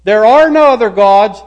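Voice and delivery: lightly voiced God, emphatic warning; God commanding. God giving the second commandment, lightly acted command. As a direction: lay down the rule firmly to the people. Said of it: "God said".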